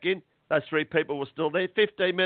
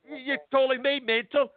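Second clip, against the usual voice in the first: retold angry outburst; 7 semitones higher than usual. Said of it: "Sorry, I'm getting upset here".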